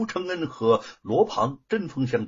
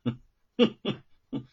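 cold sneer; 3 semitones lower than usual. A narrator's reading. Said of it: "当下冷笑一声".

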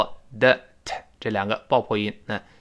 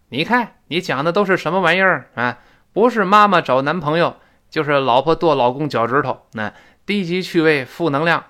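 mock scolding, pitched up; criticizing wife; 3 semitones higher, 4 dB louder than usual. Wife scolds husband about his radio show, mock criticism. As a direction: imitate a wife telling off her husband, louder. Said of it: "媳妇儿批评我".

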